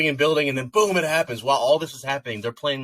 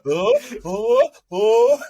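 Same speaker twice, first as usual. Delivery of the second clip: surprised; 6 dB louder, much slower than usual. Real, not acted. Sudden realization.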